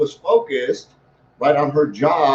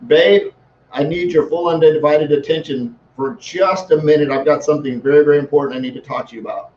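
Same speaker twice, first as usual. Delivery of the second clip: 1 calm, direct request. Shown as a demonstration. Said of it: "try it this way".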